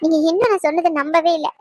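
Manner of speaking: pleading through tears to be trusted; tearful pleading. Acted. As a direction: beg him while crying. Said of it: "அழுகாத". (கண்ணீருடன் கெஞ்சுதல்)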